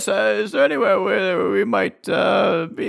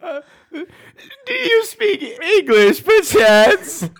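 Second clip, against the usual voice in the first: formal traveler voice; 5 semitones higher, slower than usual. Acted. Character asks in a posh voice.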